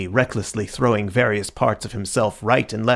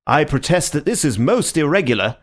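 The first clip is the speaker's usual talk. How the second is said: indignant; 5 semitones higher, 4 dB louder than usual. Acted. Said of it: "said Doctor Bull indignantly".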